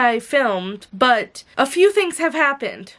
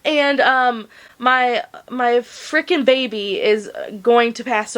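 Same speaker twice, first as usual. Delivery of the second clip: crying. Real, not acted. Crying over dying dog.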